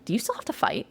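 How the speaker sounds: hushed, breathy whisper; whispered question. Retold or imitated. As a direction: whisper it in sudden realisation. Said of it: "she goes".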